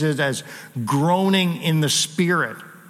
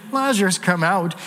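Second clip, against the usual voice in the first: mild suggestion. Retold or imitated. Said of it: "He's not giving a suggestion".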